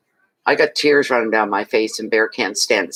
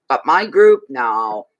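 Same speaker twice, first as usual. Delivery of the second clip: indignant; 3 dB louder, slower than usual. Real, not acted. Indignant that group won't show.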